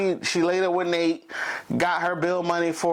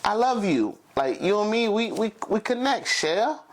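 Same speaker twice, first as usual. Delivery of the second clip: Gambit pleading. Retold or imitated. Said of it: "Gambit's trying to be like".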